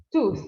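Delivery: Tooth ending with a clear th sound; th like Spanish z. Shown as a demonstration. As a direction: end Tooth with tongue between the teeth. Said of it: "pronunciar la T H como una Z española". (Tooth con la T H como Z española)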